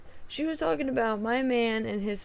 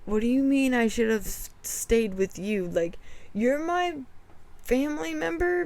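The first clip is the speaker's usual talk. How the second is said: firm defense. Retold or imitated. Retold defense of fiance.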